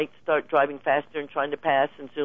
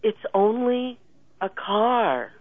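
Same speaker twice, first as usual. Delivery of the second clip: soothing reassurance; 6 semitones higher, slower than usual. Retold or imitated. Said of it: "pointing at the finger, going".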